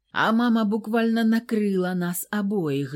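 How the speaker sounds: plain reading voice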